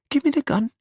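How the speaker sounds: very high, frightened plea; whimpering. A narrator's reading. Wife asks her armed husband for the gun, whimpering. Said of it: "Essie's whimpering now".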